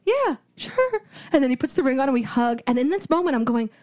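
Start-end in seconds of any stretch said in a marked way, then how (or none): 0.1-1.0 high, half-hearted yes; unenthused acceptance. Retold or imitated. Stunned girlfriend accepting proposal, half-hearted. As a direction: agree without any joy. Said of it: "I'm just stone faced".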